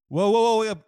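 loud, high shrieking alarm; excited shriek. Real, not acted. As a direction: shout it like a jackpot winner. Sudden big breaking news.

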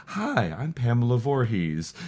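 slow, soft wide-eyed introduction; Pamela Voorhees. Retold or imitated. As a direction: lightly imitate a wide-eyed woman, softly. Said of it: "her wide-eyed saying".

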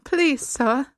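put-on British orphan accent; amateur British orphan accent. Shown as a demonstration. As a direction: plead in a hammed-up British accent. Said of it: "I'll do it in the accent".

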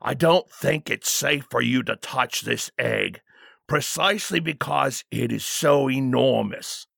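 lightly voiced, firm royal guard; cautious bodyguard. Bodyguard warning the king about the egg, respectfully firm. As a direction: caution him with respectful firmness.

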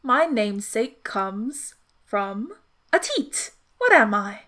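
slow, measured riddle with lingering key words; riddle recital. Acted. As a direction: pose the riddle deliberately, word by word. Phineas poses third riddle.

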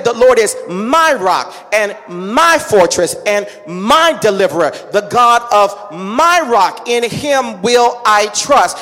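slow, solemn reading of the psalm; scripture reading. Acted. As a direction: read each line deliberately, like holy text. Reads Psalm aloud, slowed.

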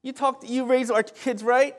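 high, loud, gushing praise to a wife; butter up your wife with rising enthusiasm; playfully re-enacted husband's flattery; sweet-talking husband. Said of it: "that's how I talk to my wife".

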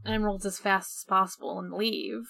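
whispered Sonic. Retold or imitated. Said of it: "And Sonic's like".

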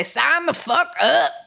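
slow, stretched cheeky pitch; drawn-out crude pitch. Shown as a demonstration. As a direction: drag it out teasingly. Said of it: "I'll do an episode where I just talk".

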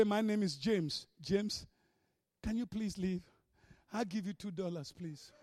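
very soft, low, feeble begging; mock meek pleading. Timid believer bargaining with a demon, mock meek. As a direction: fade away into a tiny plea.

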